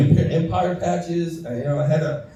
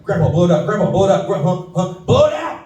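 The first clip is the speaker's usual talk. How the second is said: urgent coaching; 3 semitones higher than usual. Retold or imitated. Urging grandpa to exhale the hit, getting more frantic. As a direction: push him to blow the smoke out, faster each time.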